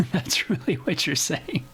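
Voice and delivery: amused laughter. Real, not acted. Preacher chuckles at what the self-satisfied really mean, laughing. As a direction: say it while chuckling. Laughs at the attitude just mimicked.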